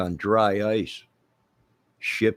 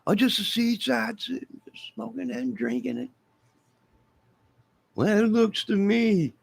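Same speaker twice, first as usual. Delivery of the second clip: much higher, squeaky put-on voice; high mock voice; 14 semitones higher than usual. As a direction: voice a gossiping onlooker. Voicing onlookers high.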